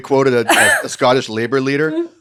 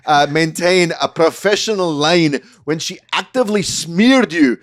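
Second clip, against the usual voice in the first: put-on Scottish accent; 3 semitones higher than usual. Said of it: "an incredible Scottish accent".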